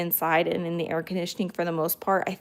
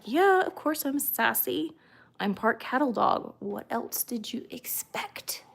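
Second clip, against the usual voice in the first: voicing the dog; 3 semitones higher, 4 dB quieter than usual. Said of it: "I totally talk for my dogs".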